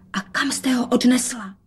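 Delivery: unvoiced hushed question; whisper. A narrator's reading. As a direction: whisper it out of father's earshot. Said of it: "dodala šeptem". (šepotem)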